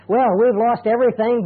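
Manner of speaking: steady and accepting, not despairing; accepting, calm quote. Retold or imitated. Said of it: "Two completely different attitudes".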